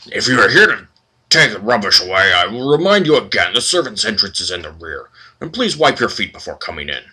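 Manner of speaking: lightly voiced disdainful scolding; snooty librarian. Librarian telling the party to use the servants' entrance, disdainful. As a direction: talk down to them like sewer rats.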